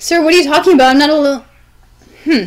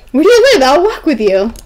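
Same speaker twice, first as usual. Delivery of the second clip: princess voice. Acted. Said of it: "princess voice".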